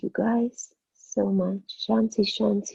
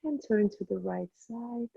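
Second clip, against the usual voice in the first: guided meditation. Acted. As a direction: ease the class into stillness. Teacher guides closing meditation.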